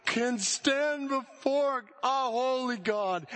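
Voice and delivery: rising, slow, intense preaching climax; preaching at full force. Acted. Preacher lifting the congregation toward the climax, slow and soaring. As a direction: build it up slowly to the cross.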